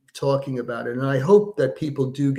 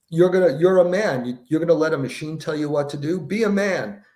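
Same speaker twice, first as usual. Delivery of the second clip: acting out a forceful, higher-pitched challenge; retold scolding; 3 semitones higher, 4 dB louder than usual. Brando to his passenger over red lights, mock scolding. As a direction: imitate an indignant dare, punched at the start.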